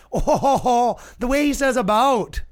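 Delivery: high, loud mocking "oh ho ho"; mocking laugh. Podcaster mimics fans teasing his accent, high mocking laugh. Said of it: "people being like".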